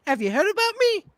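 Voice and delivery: high falsetto repeat, stress on me; same high parody voice, landing on me; AOC impression. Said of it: "I'd like to play A O C".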